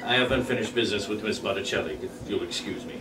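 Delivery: menacing villain. Acted. Villain Reggie confronts Ray.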